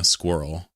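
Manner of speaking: "squirrel" drawn out slowly, one syllable at a time; slow squirrel try. Shown as a demonstration. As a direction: stretch out "squirrel" with care. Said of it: "I can't say squirrel as a German".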